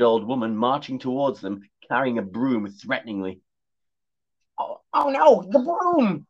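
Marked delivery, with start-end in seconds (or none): 4.6-6.3 high, loud frightened cat; panicked cry. Acted. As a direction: shriek it in sudden panic. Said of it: "cried the cat".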